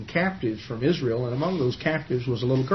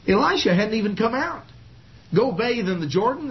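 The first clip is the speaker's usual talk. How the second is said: furious; 8 semitones higher than usual. Retold or imitated. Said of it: "Naaman was furious".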